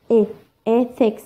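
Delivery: E alone, pause, then "Ethics" stressed on E; stressed syllable shown. Shown as a demonstration. Teacher showing where stress falls, E first then "Ethics". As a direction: isolate the E before saying "Ethics". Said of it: "How stress".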